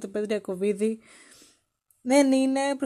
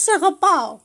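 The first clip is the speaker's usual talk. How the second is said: loud, higher love declaration; mock shout; 5 semitones higher, 6 dB louder than usual. Man declaring love to a girl in the street, mock shouting. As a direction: call it out to a stranger. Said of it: "και της φώναξε".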